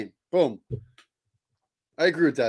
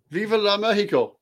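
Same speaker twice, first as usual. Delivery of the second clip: high-pitched cartoon puppet voice; South Park puppet teacher; 6 semitones higher than usual. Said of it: "That's like a teacher from South Park with Puppet".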